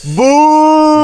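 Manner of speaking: high shouted boom; boom exclamation. Acted. Mocking exclamation.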